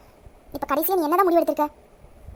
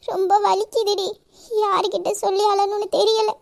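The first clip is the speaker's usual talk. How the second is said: tearful. Acted. Distressed woman confiding in her close friend, tearful. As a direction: pour out the hurt through tears. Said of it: "ஏன் அழுவுற?".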